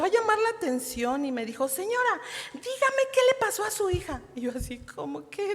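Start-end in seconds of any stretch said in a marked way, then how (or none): 1.7-4.2 high, loud scolding demand; angry doctor. Retold or imitated. Doctor scolding the mother in the hospital, retold angrily. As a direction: retell the doctor's angry telling-off. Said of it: "me habla muy enojada y me habla muy exaltada".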